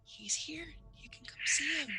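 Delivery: high, hushed, half-whispered reassurance; soft mother. Acted. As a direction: gently invite a child in, almost whispering. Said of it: "Amanda looks over and goes".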